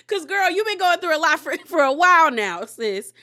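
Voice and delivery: high, loud, laughing delivery; laughing agreement. Real, not acted. Host agrees castmate has struggled a while, laughing.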